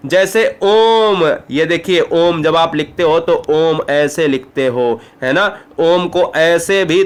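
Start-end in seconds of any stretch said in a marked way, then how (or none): 0.6-1.4 drawn-out om. Shown as a demonstration. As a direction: stretch om very slowly.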